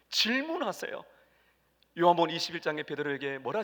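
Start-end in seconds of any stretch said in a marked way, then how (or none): 0.1-1.0 hushed, secretive whisper. Real, not acted. Preacher telling the congregation the secret, whispered. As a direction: lean in and whisper the key word.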